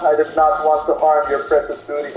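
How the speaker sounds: Darth Maul. Acted. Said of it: "wanna hear my Darth Maul impression?".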